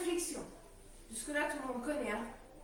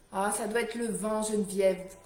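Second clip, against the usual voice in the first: raised voice against the wind; shouting over wind; 6 semitones lower, 6 dB louder than usual. Real, not acted. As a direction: call out over the gusts. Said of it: "oui, c'est la tempête".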